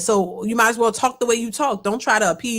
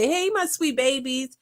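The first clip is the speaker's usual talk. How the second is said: imitating Monique; 3 semitones higher, 4 dB quieter, slower than usual. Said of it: "Monique in my head where she just said".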